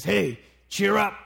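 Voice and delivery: brusque crowd member calling out; gruff, rough voice. Acted. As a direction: gruffly order someone to cheer up. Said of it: "that gruff, rough voice speaks again".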